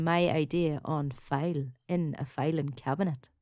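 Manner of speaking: put-on filing cabinet line in a Donegal accent. Quoting a fisherman from a TV ad, Donegal accent. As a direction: say it like the Donegal fishing ad. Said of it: "it's funny the way we say it".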